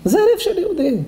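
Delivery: very high, sustained exclamation; impassioned admiration. Real, not acted. Rabbi to congregation about a Jew's heart, impassioned. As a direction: cry it out in wonder. Exclaims over the crying listener.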